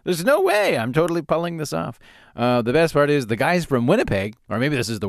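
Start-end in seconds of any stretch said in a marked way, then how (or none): 0.0-2.0 mock offended. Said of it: "all offended".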